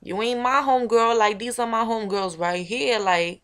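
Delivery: loud dismissive snap; tough street girl. Acted. Rejecting the old homegirl in front of her crew, loud and dismissive. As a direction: cut her off cold. Back to her own character.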